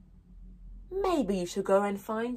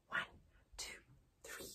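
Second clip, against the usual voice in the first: counting in; 22 dB quieter, faster than usual. Shown as a demonstration. Teacher counting the class into the song. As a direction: count them in, one beat each. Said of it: "let's start with our song".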